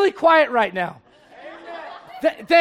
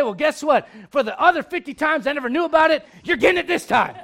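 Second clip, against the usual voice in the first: mock dad. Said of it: "what a dad like me will say".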